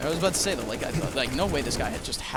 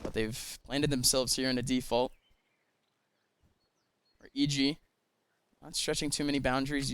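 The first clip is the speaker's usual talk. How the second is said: calm play-by-play; 2 semitones lower, 4 dB quieter than usual. Acted. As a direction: call the round like a caster. Play-by-play commentary.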